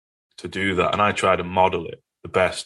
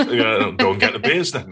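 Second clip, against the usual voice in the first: laughing. Retold or imitated. Retelling the mates' banter, laughing.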